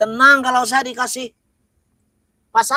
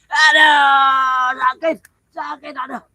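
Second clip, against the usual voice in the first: crying out in pain; slower than usual. Acted. Possessed man touched, cries out.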